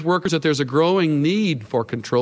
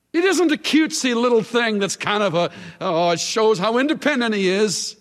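mocking dismissive parent; 8 semitones higher than usual.

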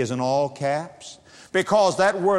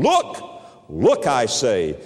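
urgent call; 5 semitones lower, slower than usual. Acted. Preacher urging flock to look.

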